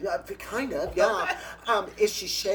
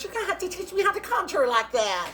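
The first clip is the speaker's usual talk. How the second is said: put-on Cajun accent; 7 dB louder than usual. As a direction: greet him in a bright Cajun accent, much higher. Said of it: "Cajun accent".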